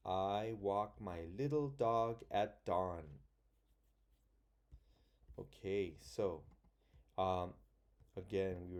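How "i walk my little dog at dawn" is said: slow reading. Shown as a demonstration. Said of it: "So again".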